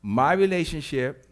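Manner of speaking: leading line for the crowd; call and response. Shown as a demonstration. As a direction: say it so they repeat. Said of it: "Say this with me".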